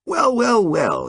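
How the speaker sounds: bright, bouncing greeting, high on the first well; cheery and buoyant, lifting up; buoyantly. A narrator's reading. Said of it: "he said buoyantly".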